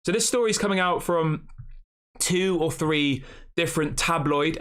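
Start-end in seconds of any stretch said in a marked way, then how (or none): 4.0-4.6 tabloid said slow and pointed; stress on tabloid. Shown as a demonstration. Streamer sneering at tabloid newspapers, slow heavy stress on tabloid. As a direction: lean hard on the word tabloid, drawn out slowly. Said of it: "emphasize the word tabloid".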